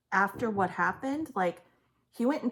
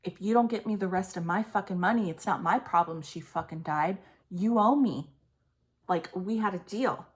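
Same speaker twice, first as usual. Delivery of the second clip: mock menacing threat, louder; imitating threatening mother; 3 dB louder than usual. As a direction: play the mother's rage as she threatens him. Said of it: "the energy is like".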